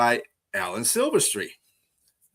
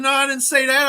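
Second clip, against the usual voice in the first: high, loud mock Portuguese accent, laughing through it; 6 dB louder, faster than usual. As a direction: ham up a Portuguese sailor's accent, much higher. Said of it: "was talking in an accent".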